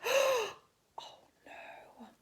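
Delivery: high, dismayed oh no; alarmed. Acted. Reader reacts to Spinderella letting go, high dismay.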